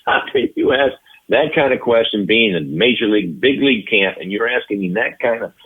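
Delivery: mild mock yell, emphatic; retold indignant dressing-down; imitating Ted Williams yelling. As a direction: act out a veteran scolding a rookie. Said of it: "And he's yelling".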